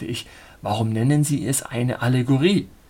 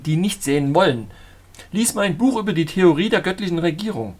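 higher and louder, zealous sermonizing; fervent preacher voice; 6 semitones higher, 4 dB louder than usual. A narrator's reading. Zealot lecturing the traveller on God's rule, fervent. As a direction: preach it like a fanatic prophet.

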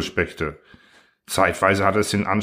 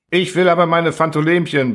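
high-pitched, insistent yell, moderately louder; bellowing; 8 semitones higher, 4 dB louder than usual. A narrator's reading. Constructor demanding his creatures back, bellowing. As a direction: bellow the demand like a stubborn child. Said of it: "brüllte Klapautius".

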